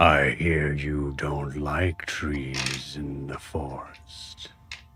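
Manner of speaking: deep, soft, grumbly voice that cracks and rumbles. Game master voices a tree speaking to the players in the forest, deep, grumbly, cracking voice. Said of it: "You hear this deep, grumbly, sort of like cracking voice".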